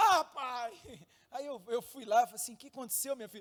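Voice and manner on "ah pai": put-on yelling, as if from another room. A father recalling his daughter calling him from the other room, imitating Duda shouting. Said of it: "aí ela gritando assim".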